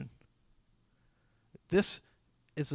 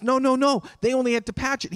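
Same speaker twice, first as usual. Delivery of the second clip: loud, higher no no no; alarmed protest; 7 semitones higher, 5 dB louder, faster than usual. Retold or imitated. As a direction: protest sharply like a shocked pastor. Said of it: "And he says".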